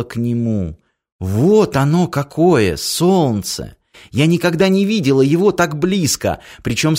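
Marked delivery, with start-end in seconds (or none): none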